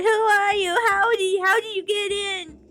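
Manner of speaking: high, panicked questions; terrified. Acted. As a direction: stammer in fright. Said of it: "his expression terrified".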